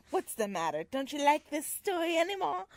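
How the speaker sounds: lightly voiced automaton Henry; a hint of a wounded showman. Reading Henry's line to Belle, lightly voiced. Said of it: "That's a great Henry voice".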